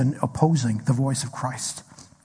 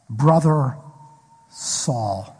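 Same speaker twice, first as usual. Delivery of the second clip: tender greeting; 3 semitones lower, much slower than usual. Retold or imitated. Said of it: "Ananias says these two words".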